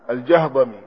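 "الجهضمي" said al-Jahdami, a after jim and dad; spelled-out vowelling. Shown as a demonstration. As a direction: say "الجهضمي" with a silent-vowelled h: Jah-da-mi. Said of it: "هو بفتح الجيم والضاد". ("الجهضمي" بفتح الجيم والضاد وإسكان الهاء)

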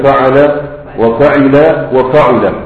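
فعل وفعل وفعل drawn out slowly, fatha then kasra then damma on the middle letter; slow vowel drill. Shown as a demonstration. Teacher drilling students on the three verb patterns, slow and careful. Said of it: "أوزان المجرد".

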